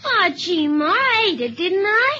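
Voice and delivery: put-on loud, whining boyish protest; whiny protest. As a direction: complain loudly to Ma. Boy protests to his mother.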